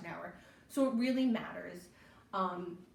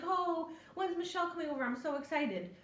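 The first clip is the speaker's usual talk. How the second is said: bright, higher eager question; excited kid's mom; 6 semitones higher than usual. Retold or imitated. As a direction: sound thrilled someone's coming over. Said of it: "be like".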